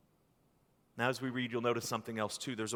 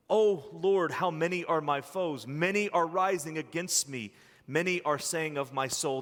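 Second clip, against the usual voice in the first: anguished lament; 3 semitones higher, 4 dB louder than usual. Acted. Pastor rereading David's lament to the church, anguished and pleading. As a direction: cry the opening out higher and louder, pleading. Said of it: "you could hear the suffering in the words".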